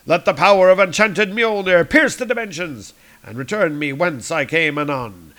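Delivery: booming archaic hero; Thor. Acted. Thor taking his leave, grandly. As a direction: proclaim like a god of thunder. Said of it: "chit-chatting".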